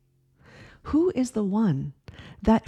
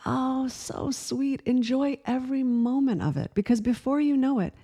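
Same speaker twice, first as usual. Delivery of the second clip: sweet stranger's advice; 3 semitones higher than usual. Retold or imitated. The couple retells advice, voiced.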